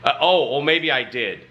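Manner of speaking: high, indignant challenge; disbelieving, confrontational questions; in his face. Retold or imitated. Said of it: "so I got in his face".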